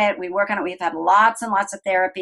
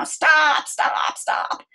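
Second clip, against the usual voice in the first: a higher stop that fades to a whisper; fading stop; 7 semitones higher, much slower than usual. Retold or imitated. Mother telling her daughter to stop, firm fading to whisper. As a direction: start firm, then sink to a hush.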